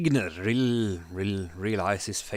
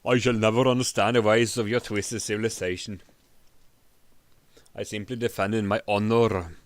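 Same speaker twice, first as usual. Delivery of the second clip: louder, indignant lecture; lecturing barbarian; 4 dB louder than usual. Acted. Barbarian lecturing the king, loud and indignant. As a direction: scold them with contempt. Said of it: "lectured Grignir".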